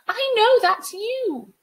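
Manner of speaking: slow, high, drawn-out shout; Sabrina. Acted. Girl challenging the spirit in the water, slow high shout. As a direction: yell it out as an accusation. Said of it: "Sabrina shouted".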